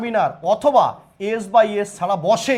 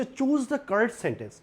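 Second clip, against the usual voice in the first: slow read-out; 6 dB quieter, much slower than usual. Shown as a demonstration. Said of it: "correct সেন্টেন্সটা আমাকে এখানে ঠিক করতে".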